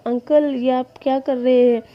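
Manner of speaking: young man crying out, hammed-up pain; mock yelp of pain. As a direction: yelp it out as the burn is pressed. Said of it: "विंग जोर से चिल्लाता है".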